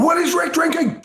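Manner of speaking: high, showy announcer voice; game show announcer. Pretend. Segment title announced.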